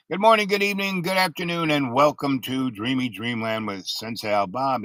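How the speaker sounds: playful radio-host welcome; show host greeting. Pretend. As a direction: rattle off a mock show opening. Mock show opening greeting.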